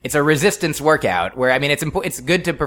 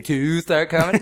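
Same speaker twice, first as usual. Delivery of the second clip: Boston accent; 4 semitones higher than usual. Shown as a demonstration. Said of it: "That's my Boston accent coming out".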